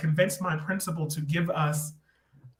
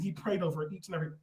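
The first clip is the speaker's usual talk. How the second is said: whisper; 10 dB quieter, faster than usual. Real, not acted. Confiding scandalous church detail.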